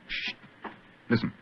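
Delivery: soft, low sneaking voice; hushed whisper. Acted. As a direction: whisper so nobody hears. Sneaking through dark cellar.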